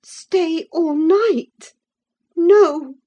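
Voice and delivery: put-on high, loud, slow outraged girl; indignant refusal. A narrator's reading. Catherine indignantly refusing to stay all night. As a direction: refuse flatly. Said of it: "she said".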